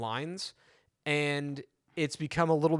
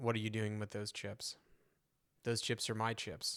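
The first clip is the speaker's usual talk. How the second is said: low, flat, emotionless deadpan; 4 semitones lower, 9 dB quieter than usual. Acting out how another man delivers his line, imitating his flat delivery. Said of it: "he delivers it like".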